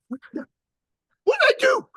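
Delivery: high, alarmed mock panic; panicked. Telling the host what men think, high mock panic.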